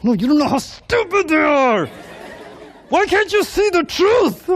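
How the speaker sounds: high-pitched, hammed-up sibling outrage; exasperated sibling. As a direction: wail in mock despair, stretching the final words. Acts jealous sibling, hurt by compliment.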